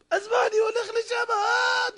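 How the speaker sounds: high, squealing laughing scoff; mock laughter. Soldier ridicules following a dream, mock laughter. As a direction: scoff until it breaks into a cackle. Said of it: "צוחק".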